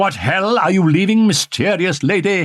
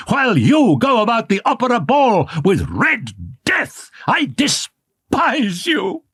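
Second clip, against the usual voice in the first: much higher, crying out in bitter hurt; childish hatred; 8 semitones higher than usual. A narrator's reading. Jilted young man accusing his beloved, childish hatred. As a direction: spit it out like a wounded boy. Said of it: "in accents of childish hatred he cried".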